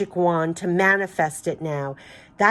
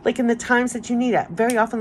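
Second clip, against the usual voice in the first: near tears; 6 semitones higher than usual. Real, not acted. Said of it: "that's what's, like, making me cry".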